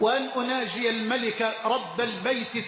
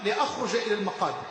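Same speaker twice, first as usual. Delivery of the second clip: retold shouting; 3 semitones higher than usual. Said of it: "يقول أصرخ وأقول له".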